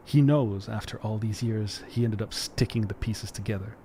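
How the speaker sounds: put-on lightly performed reading of an old letter; theatrical reading of a love letter; dramatic letter reading. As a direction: read it out like a heartfelt note. Reads a found letter aloud.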